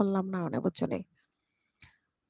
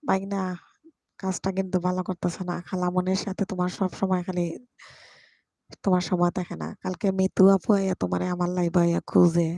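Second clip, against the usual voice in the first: louder, half-joking telling-off of the nephew; loud scolding; 6 dB louder than usual. Real, not acted. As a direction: scold him loudly like a fussy aunt. Scolding nephew on live stream. (ভাগনাকে জোরে বকা দেওয়া)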